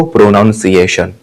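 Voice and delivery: "प्रोनाउंसिएशन" with NOUN as its second syllable; mispronounced "pronunciation". Retold or imitated. Teacher mimicking learners' error, "प्रोनाउंसिएशन" said with NOUN. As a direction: say "प्रोनाउंसिएशन" the common wrong way, pro-NOUN-. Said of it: "इस word को ही गलत बोलते हो".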